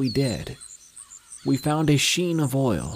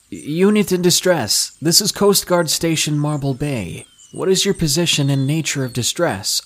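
loud radio call; 6 semitones higher, 6 dB louder than usual. Retold or imitated. Radio call to vessel in distress.

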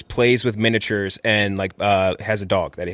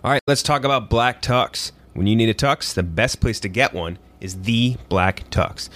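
upbeat sponsor read. Acted. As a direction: sell it like a host ad.

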